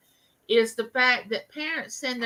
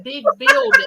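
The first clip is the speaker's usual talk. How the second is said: put-on excited child; 8 dB louder than usual. Child describing home.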